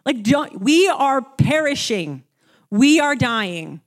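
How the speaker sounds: loud, pleading panic, slowing on the last words; panicked disciple. Retold or imitated. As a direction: beg the sleeping master to wake up as the boat sinks. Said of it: "I would be in the disciples' shoes".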